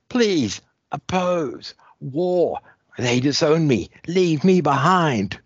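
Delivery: put-on high, strained alien girl voice in broken words; Dominator throat. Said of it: "a bit of Dominator throat".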